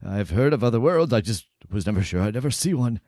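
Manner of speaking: put-on gently curious old scholar. GM voices a quiet professor.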